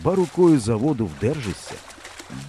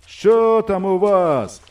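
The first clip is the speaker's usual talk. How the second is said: slow, loud, higher call across the water; cheerful call; 7 semitones higher, 4 dB louder, much slower than usual. A narrator's reading. Friends on the shore call out cheerfully, slow and loud. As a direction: hail them merrily from afar. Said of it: "весело загукали з берега".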